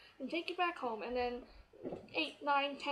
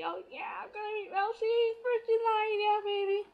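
louder and higher, bubbling with glee; excited hype; 8 semitones higher, 6 dB louder than usual. Retold or imitated. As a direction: pump yourself up, first in line. Hyped about meeting a singer.

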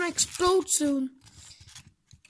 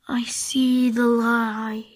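slow, low whispered last words; dying whisper; 5 semitones lower, 3 dB louder, slower than usual. Pretend. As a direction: fade out in a whisper. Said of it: "pretend like you're dying".

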